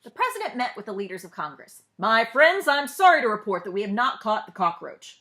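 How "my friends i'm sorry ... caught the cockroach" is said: louder, formal address; president's speech. Acted. President tells Congress leaders the bug escaped, louder. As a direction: speak up like a president reporting bad news.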